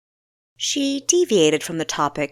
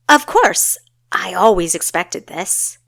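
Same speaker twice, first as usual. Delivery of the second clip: confident recovery; 8 dB louder than usual. Acted. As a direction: cover the shock with cheer. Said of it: "recovered with confidence".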